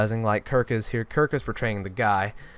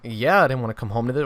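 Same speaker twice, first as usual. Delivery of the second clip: sarcastic echo; faster than usual. Retold or imitated. Brother mocking his sister's apology, lightly sarcastic. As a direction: throw her words back at her with mild sarcasm. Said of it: "And I was like".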